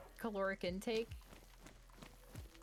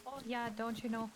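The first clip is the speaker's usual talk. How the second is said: put-on Minnesota accent. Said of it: "Got that Minnesota accent going".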